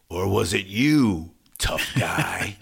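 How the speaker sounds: slow mock challenge to one suspect; retold taunt. Singer confronting the man he suspects, slow retold taunt. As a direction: imitate singling someone out, drawn out. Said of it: "points at this guy in front of him".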